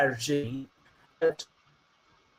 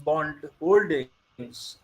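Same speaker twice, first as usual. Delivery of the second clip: put-on Indian accent. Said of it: "I should go with an accent".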